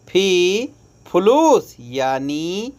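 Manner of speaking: ordinary talk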